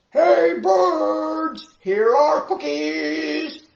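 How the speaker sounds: high, loud call out to the birds; loud shout. Acted. Frog calls the birds outside, loud shout. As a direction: shout across the yard, drawn out. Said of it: "shouted in a very loud voice".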